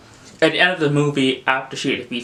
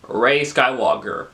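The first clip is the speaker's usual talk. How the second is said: drawn-out disbelieving sneer at the name; sarcastic slow echo of the name; slow incredulous repeat; slower than usual. Real, not acted. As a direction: say it slowly, unimpressed. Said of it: "I'm just like, wow".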